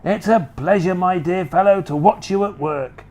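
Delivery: high, rapid urging; gleeful Mister Cranky. Acted. Mister Cranky urging George to keep pouring, gleeful. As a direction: egg him on with glee.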